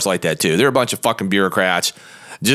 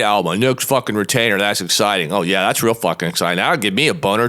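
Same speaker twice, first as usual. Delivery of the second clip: sarcastic; 3 semitones lower than usual. Retold or imitated.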